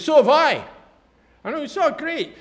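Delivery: high, loud gushing reply; excited train woman. Retold or imitated. Train woman gushing to the speaker, high and loud. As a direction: gush like the thrilled woman. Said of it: "She goes".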